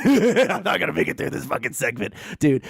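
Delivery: laughing through the words. Real, not acted. Host laughing, barely getting through the segment. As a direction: crack up mid-sentence. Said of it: "do need to take a break".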